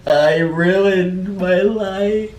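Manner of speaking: mock despair.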